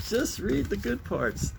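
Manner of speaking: put-on high-pitched little-kid voice. Kid asks Papa to skip ahead, high child voice. Repeats the kid's line.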